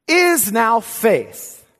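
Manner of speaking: slow, deliberate echo; woodenly repeated. Shown as a demonstration. Preacher repeats the wooden phrasing to the church, slowly. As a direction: say it again, very slow. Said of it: "reads very woodenly".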